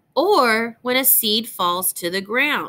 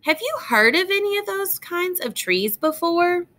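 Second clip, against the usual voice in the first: put-on bright, lilting read-aloud voice for young listeners; reading to children; 2 semitones higher than usual. Teacher reads a tree book to young students, gentle storytime reading.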